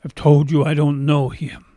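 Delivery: a touch of exasperated insistence; acted angry denial. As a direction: deny it forcefully, raising the volume. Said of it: "he denied it with a curse".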